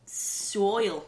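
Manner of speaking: mock Australian accent, one word; silly Australian accent. Reading WikiHow's example, silly Australian accent. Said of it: "say the silly Australian accent".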